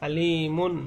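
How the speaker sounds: "আলিমুন" with long i and an unheld final n; clear izhar. Shown as a demonstration. Teacher showing no ghunnah here, clear n. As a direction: end "আলিমুন" cleanly on n, no hum. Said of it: "এখানে কোনো গুণনা হবে না".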